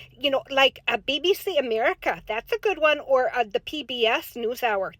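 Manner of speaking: put-on folksy Minnesota accent, chatty and sing-song; light Upper Midwest accent with long round vowels; Minnesota soccer mom voice. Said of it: "Minnesota soccer mom voice".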